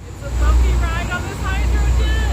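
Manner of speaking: high, loud call over the engine; excited shout on the boat; shouting over noise. Real, not acted. Shouting on bumpy ferry ride.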